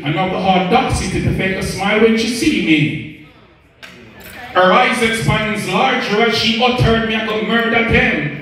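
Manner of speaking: rhythmic storytelling in verse; spoken-word poem. Acted. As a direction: recite a dramatic tale of betrayal in rhyme. Performs a narrative poem.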